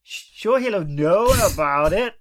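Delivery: put-on Irish accent. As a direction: ham up the Irish lilt. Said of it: "Aidan Turner? Is that you?".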